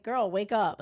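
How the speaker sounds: put-on exasperated girl wake up; wake-up call. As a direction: shake her awake with words. Telling Brittany off.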